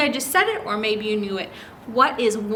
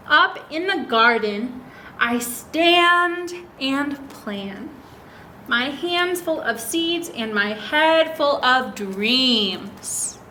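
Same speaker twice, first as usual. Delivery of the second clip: slow, gentle read-aloud; reading to children; much slower than usual. Acted. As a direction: read it like a picture book to little kids. Reads picture book aloud.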